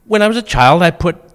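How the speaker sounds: "When" thrown out high and loud; ringing recited verse; loud quote. Retold or imitated. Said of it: "And you go".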